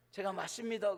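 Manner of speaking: clumsily imitated Gyeongsang accent; Gyeongsang dialect attempt. Shown as a demonstration. Preacher imitating the elder answering the phone, Gyeongsang dialect. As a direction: try a Gyeongsang accent as a non-native. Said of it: "경상도 말을 잘 못해요".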